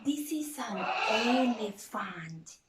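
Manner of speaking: hammed-up excitement; excited discovery. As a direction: show it off with delight.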